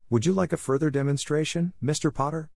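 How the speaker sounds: a hint of a polite, proper professor; McGonagall voice. A narrator's reading. Narrator voicing McGonagall.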